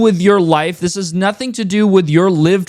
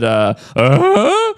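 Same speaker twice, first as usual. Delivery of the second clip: rising mock "uh?" noise; imitated sound effect; 3 semitones higher than usual. Critic mimics the stupid sound effect he inserts, mocking. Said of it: "inserts that fucking stupid".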